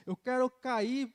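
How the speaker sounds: loud, slow preaching cry; fervent cry. Real, not acted. Testifying preacher crying out to the church, loud and slow. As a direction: declare it with full force, drawn out.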